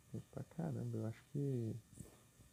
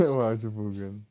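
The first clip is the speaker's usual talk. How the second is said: laughing; 13 dB louder than usual. Real, not acted. Laughing at glitchy game audio.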